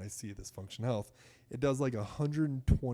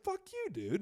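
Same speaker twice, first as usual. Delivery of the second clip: angry retort. Retold or imitated. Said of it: "And I'm so mad".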